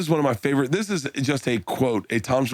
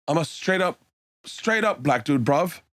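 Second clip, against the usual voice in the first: put-on Liverpool accent; 3 semitones higher than usual. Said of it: "Liverpool, bruv".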